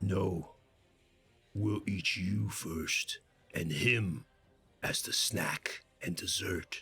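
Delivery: low, throaty, guttural goblin voice. A game master voices a goblin answering the players, in a guttural goblin voice. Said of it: "in his guttural common".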